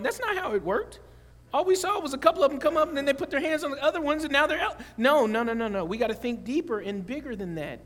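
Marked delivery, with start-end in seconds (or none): 0.0-4.8 mock doubting congregant. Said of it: "some of you are going".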